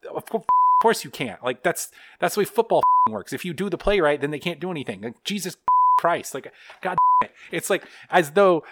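losing it over a dumb football quote; rage rant. Real, not acted. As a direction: blow up at the quote in real fury. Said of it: "You really rage blacked out".

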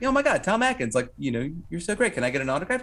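excited fan. Retold or imitated. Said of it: "and I'm like".

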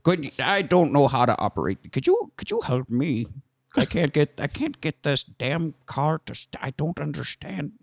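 lightly voiced doddering old man; confused old man. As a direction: fumble like a lost old man. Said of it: "Old Man".

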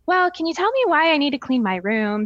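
a daughter arguing about her room; sassy daughter. Retold or imitated. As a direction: push back like a drama kid. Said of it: "she would say".

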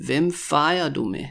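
careful, joined-up question; slow demonstration. Shown as a demonstration. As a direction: ask it clearly and unhurriedly. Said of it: "when I say it really slowly".

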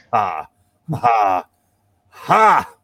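hammed-up evil cackle, rising; ha ha ha like a cartoon villain; mad scientist. Mock evil cackle after plot.

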